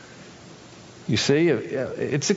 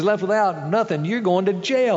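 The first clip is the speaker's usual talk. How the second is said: harsh, raised threat from the master; stern king; 5 semitones higher than usual. Acted. Master threatening his debtor with a sharp stern voice. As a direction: condemn him to jail.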